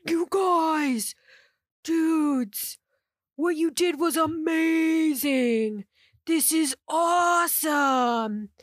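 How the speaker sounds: high, slow, gushing praise; excited students. Retold or imitated. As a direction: gush like an impressed teenager. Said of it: "everybody in the common room is like".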